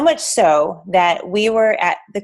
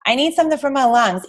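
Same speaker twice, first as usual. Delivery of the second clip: whiny customer; 6 semitones higher than usual. Retold or imitated. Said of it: "you're like".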